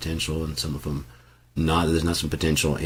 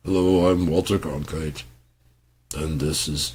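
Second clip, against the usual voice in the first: lightly voiced old newsman; a hint of a formal TV anchor greeting; Walter Cronkite. Mocking old broadcasters, a light newsman voice. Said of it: "industry standard for fucking talking on the radio".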